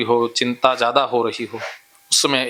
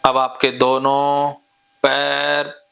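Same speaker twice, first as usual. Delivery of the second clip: hypnotic induction. Real, not acted. Hypnotist telling a client to loosen both legs, hypnotic drone. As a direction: stretch the words as you guide them into relaxation.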